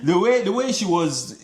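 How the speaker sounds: amused high voice, cracking into laughter; laughing. Real, not acted. Host laughing while recalling her accent.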